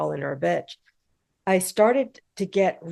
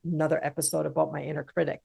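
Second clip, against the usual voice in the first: softer, low-pitched imitation of a weary listener; mock eye-rolling; 3 semitones lower, 7 dB quieter, much faster than usual. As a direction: grumble it like a mock-bored listener. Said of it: "before you roll your eyes and go".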